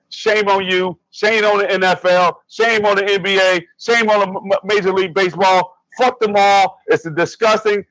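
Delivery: rising, heated list of shames; angry rant. Real, not acted. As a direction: call them out one after another, pissed off. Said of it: "I'm pissed off about it".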